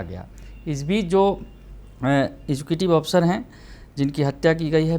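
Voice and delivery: brisk, emphatic TV news delivery; news anchor read. Acted. Anchor presents the murder story to viewers, news read.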